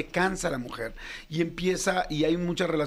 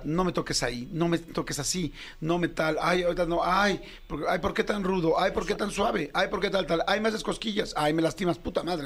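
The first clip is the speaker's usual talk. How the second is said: each "ay" a fussy protest; whiny wife complaints; 3 semitones higher than usual. Retold or imitated. Man imitating wife's complaints.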